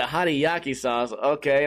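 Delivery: slow, doubtful "Hariyaki sauce?" with a questioning tilt; puzzled repeat. Retold or imitated. Hearing the cook's odd sauce name, slow puzzled echo. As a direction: echo the strange name back, unsure. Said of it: "And I was like".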